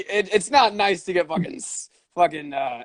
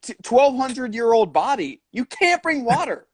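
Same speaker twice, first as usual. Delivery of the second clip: mock furious museum guard; 4 semitones higher than usual. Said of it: "She's going hog wild".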